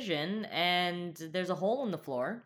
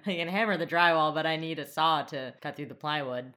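Toby impression; 3 dB louder than usual. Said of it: "We could do a Toby impression".

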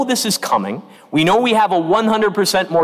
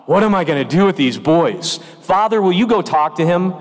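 exasperated. Retold or imitated. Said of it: "in exasperation is like".

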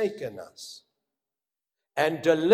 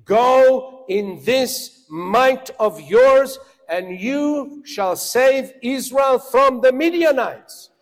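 voice of God commanding; 8 semitones higher, 10 dB louder than usual. Retold or imitated. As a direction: proclaim it like God sending Gideon. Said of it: "he says to him".

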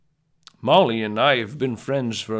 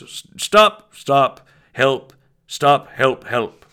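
squealing stop as if tickled; being tickled; 2 semitones higher, 7 dB louder, much slower than usual. Pretend. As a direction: pretend you're being tickled, giggly pleas. Tickled in the story.

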